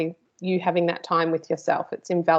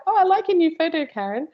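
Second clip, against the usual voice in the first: imitating a colleague's compliment; 10 semitones higher, 3 dB louder than usual. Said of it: "Anne, I appreciate the feedback".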